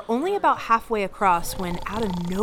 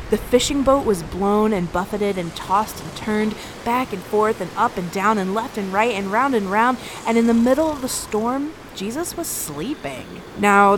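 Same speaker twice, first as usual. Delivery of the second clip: louder, urgent storm narration; dramatic storytelling; 5 dB louder than usual. A narrator's reading. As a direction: drive the storm story along with force.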